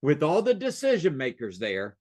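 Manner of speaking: "all the decision makers" said deliberately, set off by pauses; measured weight on "decision makers"; pointed repetition. Shown as a demonstration. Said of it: "Did you hear what I just said?".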